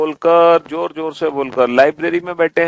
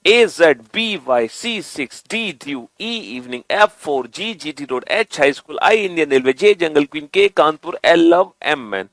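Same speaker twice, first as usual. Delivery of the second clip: reading along; 2 semitones lower than usual. Shown as a demonstration. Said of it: "फिर से पढ़ते हैं".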